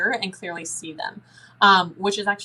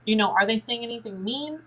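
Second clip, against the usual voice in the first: pitched up, reassuring and upbeat; reassuring parent, high; 5 semitones higher than usual. Shown as a demonstration. Parent reassuring the scared child about the spirit, high and encouraging. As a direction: talk the child down kindly in a higher voice. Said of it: "And you're like".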